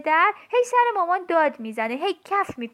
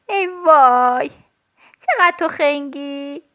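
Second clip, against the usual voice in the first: slow, loud exasperated groan; loud, slow "ای وای" of exasperation; 6 dB louder, slower than usual. Acted. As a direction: drag it out at the dumb doll. Child exasperated at doll.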